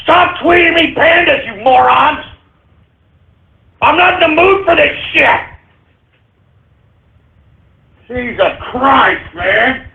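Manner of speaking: hammed-up furious outburst; angry yelling. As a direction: yell at the idiots on Twitter. Yelling at Twitter trolls.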